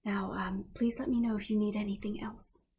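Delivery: lightly voiced, lighter and a little raspy; a hint of whispery rasp, unhurried thanks; Galana's voice. Character thanks the party before leaving, lightly raspy voice. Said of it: "a little bit lighter and".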